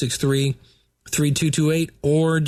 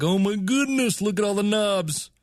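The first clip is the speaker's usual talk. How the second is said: higher, mock panic at the sight of a mixer; overwhelmed beginner; 5 semitones higher than usual. Podcaster imitating nervous beginners seeing a mixer, mock panic. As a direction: play a newbie daunted by the knobs. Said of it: "We're like".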